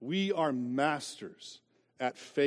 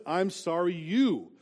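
fake apology; 4 semitones higher, 3 dB louder, slower than usual. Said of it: "How about this?".

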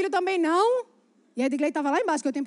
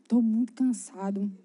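tired husband; 5 semitones lower than usual. Retold or imitated. Acted tired husband declining outing.

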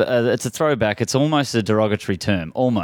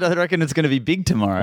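imitated Australian accent; 4 semitones higher, faster than usual. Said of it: "He said".

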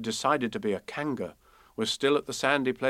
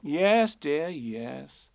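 soothing; 3 semitones higher, much slower than usual. A narrator's reading. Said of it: "said Kanga soothingly".

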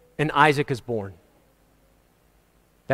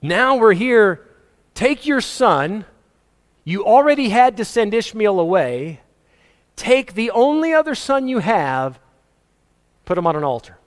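emphatic preaching; 4 semitones higher than usual. Real, not acted. Preacher to congregation on Abraham's test, rising and emphatic. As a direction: drive the hard command home. Preacher voicing God's command.

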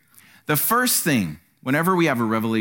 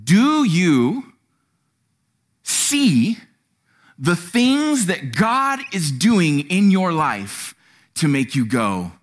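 usual speaking voice

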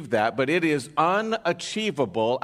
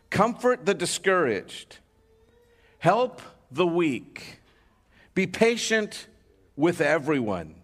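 scripture reading. Acted. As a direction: read the passage deliberately to the church. Reads scripture aloud.

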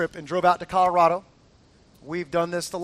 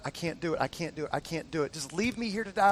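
low, soft, repetitive defeat; hopeless murmur; 4 semitones lower, 9 dB quieter than usual. Retold or imitated. Wife to husband stuck on the descent, hopeless. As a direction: imitate giving up in a small, low voice. Voices wife despairing on the mountain.

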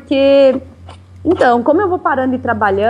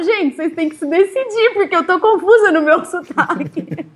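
laughing protest; 6 semitones higher than usual. Retold or imitated. Her mock-exasperated reply to friends.

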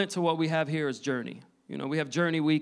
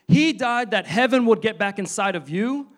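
higher, louder mock preacher's proclamation; preaching loudly; 5 semitones higher, 6 dB louder than usual. Pastor imitating a loud preacher he heard, proclaiming. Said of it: "hear a person preach loudly saying".

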